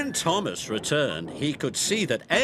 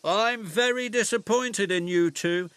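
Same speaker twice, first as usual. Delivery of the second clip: cross; 7 semitones higher than usual. A narrator's reading. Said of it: "Miss Jenny was cross".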